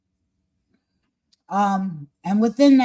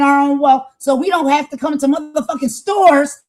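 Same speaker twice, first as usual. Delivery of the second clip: high, heated shouting; real impassioned outburst; letting loose; 5 semitones higher, 4 dB louder than usual. Real, not acted. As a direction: let rip with indignant force. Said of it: "I have to let loose here".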